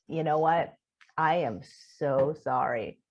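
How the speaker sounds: low, careful retold apology; apologetic. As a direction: apologize gently to calm them down. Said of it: "I just start apologizing".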